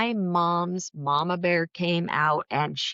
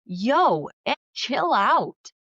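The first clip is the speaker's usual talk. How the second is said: louder, higher snap back of chill out; pushing back, voice raised in mock warning; 5 semitones higher, 4 dB louder, slower than usual. Talking back to angry sister on phone, raised voice. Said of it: "raise my voice to start talking back".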